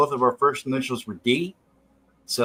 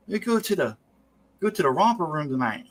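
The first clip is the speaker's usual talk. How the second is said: little Frogger voice; 3 semitones higher than usual. Retold or imitated. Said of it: "he talked like a little Frogger".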